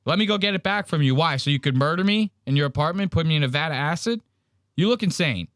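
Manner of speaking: high fast sarcastic taunt; mocking frat boys. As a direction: rattle off the taunt like a smug frat kid. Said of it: "They go".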